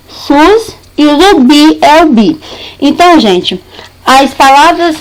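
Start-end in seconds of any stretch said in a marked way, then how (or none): 0.1-0.8 "sus" set apart as the stressed syllable; single out "sus" as one held beat; stressed syllable alone. Shown as a demonstration. Teacher isolating the last syllable of Jesus, stressed syllable alone. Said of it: "na sílaba tônica dessas palavras".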